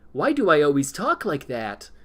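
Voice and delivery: every word crisply over-enunciated, mildly; mock overly careful diction. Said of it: "enunciate everything that he said".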